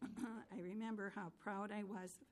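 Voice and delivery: aged voice wavering through. Real, not acted. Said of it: "My old lady voice is showing up".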